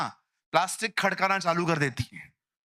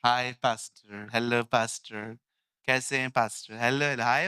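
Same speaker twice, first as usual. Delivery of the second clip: mock lazy greetings; 5 semitones lower than usual. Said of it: "मुझे कोई हाय मत बोलना".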